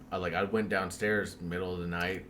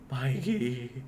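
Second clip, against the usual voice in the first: trembling call; 6 semitones higher, much slower than usual. Retold or imitated. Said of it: "like that, like, trembling".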